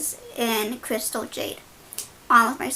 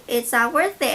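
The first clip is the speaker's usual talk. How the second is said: imitating an urgent plea, louder; nephew holding back; 5 dB louder than usual. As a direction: reenact talking someone down, voice raised. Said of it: "he's, like, holding me back".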